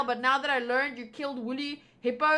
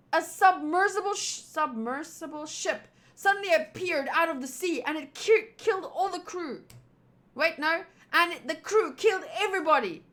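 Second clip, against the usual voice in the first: urgent, louder calls for help; panicked villagers; 3 semitones higher, 4 dB louder than usual. Acted. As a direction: voice the frightened guards lightly. Voices panicked villagers dialogue.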